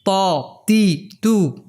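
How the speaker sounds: "ত, তি, তু" as emphatic Ta, unlike Bengali ত or ট; heavy Arabic Ta. Shown as a demonstration. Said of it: "ত কিন্তু তার মতোও নয়". ("ত, তি, তু", আরবি ত-এর উচ্চারণে)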